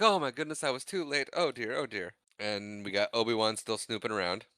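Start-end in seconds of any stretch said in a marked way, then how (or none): 0.0-2.1 lightly voiced fretting droid; mock dismay, starting high and sinking; C-3PO. Droid thinking his friends got crushed, lightly imitated distress.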